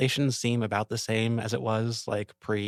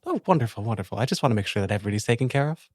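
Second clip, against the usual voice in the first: lieutenant character voice; faster than usual. Acted. Character voice continues.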